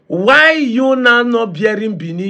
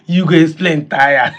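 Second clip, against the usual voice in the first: laughing tease. Real, not acted. Laughing again.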